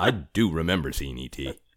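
mock defensive, on-the-spot tone. Mimicking someone's answer about remembering E.T., mock-defensive as if grilled. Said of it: "your tone was like you were being grilled by an attorney".

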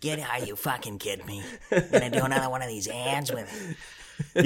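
polished announcer voice turning completely furious. Joking about radio voices: Casey Kasem losing his temper. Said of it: "It's like Casey Kasem when he lost his shit".

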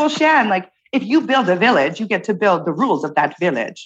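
slight, put-on French-accented English. Retelling what a woman told her about building a village: little french accent. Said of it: "her little French accent".

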